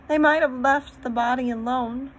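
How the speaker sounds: upset protest. A narrator's reading. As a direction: protest through distress, without real sobbing. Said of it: "sobbed Lucy".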